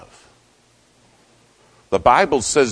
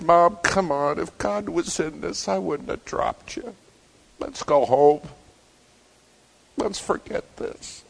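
retold crying; 8 semitones higher than usual. Son begging his fallen mom to go home, tearful retelling. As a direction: plead tearfully, dropping to a near whisper at the end. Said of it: "And I'm crying".

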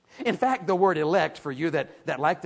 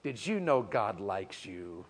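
much lower, softer and slow; gentle and tender; 11 semitones lower, 9 dB quieter, slower than usual. Shown as a demonstration. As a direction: say it kindly to the person beside you. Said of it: "Smile at the person beside you and say to them".

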